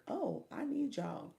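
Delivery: high, slow, gushing plea; overeager, pleading to the viewers; mock needy high plea; too eager plea. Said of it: "I was too direct".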